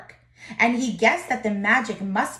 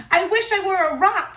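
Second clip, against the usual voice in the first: high, louder, frightened cry; panicked wish; 8 semitones higher, 4 dB louder than usual. A narrator's reading. Sylvester the donkey panics before the lion. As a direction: blurt it out in a panic. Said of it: "he said".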